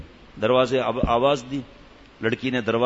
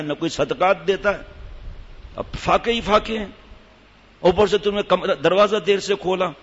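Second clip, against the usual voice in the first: angry husband shouting; 4 semitones higher than usual. Acted. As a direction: bellow it like an enraged husband putting on a show. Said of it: "زور سے چیخ ماری".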